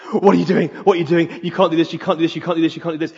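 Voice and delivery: urgent, repetitive nagging, loud at the start; nagging inner voice. Acted. Doubting voice in his head before getting engaged, insistent nagging. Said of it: "the voice got louder and louder".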